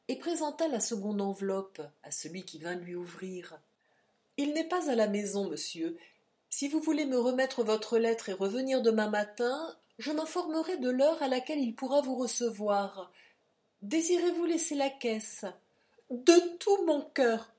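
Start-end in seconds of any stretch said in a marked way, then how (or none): 4.4-15.5 lightly voiced footman, a little higher; a hint of a servant, politely declining. Footman answers at the door. 16.1-17.5 slow, loud, high cry of relief; eager cry. Acted. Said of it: "s'écria Silas".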